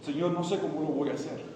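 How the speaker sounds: subdued, halting vow; humble resolve. Acted. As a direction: confess it quietly, then commit. Models the believer's humble answer.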